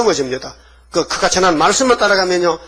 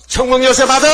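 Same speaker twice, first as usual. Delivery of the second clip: ringing proclamation; 7 semitones higher, 4 dB louder than usual. Acted. Jesus handing Peter the keys.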